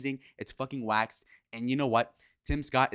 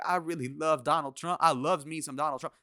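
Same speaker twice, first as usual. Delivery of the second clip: higher-pitched mocking put-on voice; mock a politician gushing in a raised voice; Tim Scott impression; 4 semitones higher than usual. Host mocking how the senator talks, higher put-on voice. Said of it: "Tim Scott talking like this".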